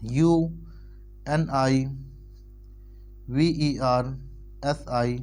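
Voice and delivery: slow, letter by letter; spelling out. Shown as a demonstration. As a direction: spell it out slowly. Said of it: "जैसे यूनिवर्सिटी".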